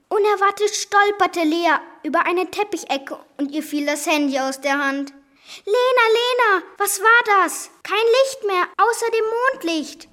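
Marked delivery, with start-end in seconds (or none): 5.7-10.1 high, scared calling out to her friend; heartbreaking cry. Acted. Lea calling to Lena in the dark house, high and frightened. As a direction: cry out in the dark, a little louder. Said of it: "rief sie herzzerreißend".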